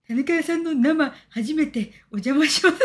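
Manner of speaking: slow, leering mock fan voice; slow suggestive comment voice breaking into a laugh; creepy read-aloud. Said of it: "なんかキモい、".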